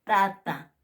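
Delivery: "tata" said loudly with a Spanish-style t; plain t model. Shown as a demonstration. Teacher modelling the plain t. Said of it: "como en el castellano".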